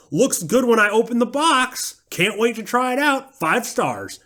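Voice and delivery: high Southern reviewer voice; Southern accent. Acted. Mocking a five-star Amazon reviewer in a high Southern accent. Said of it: "I'm using a Southern accent".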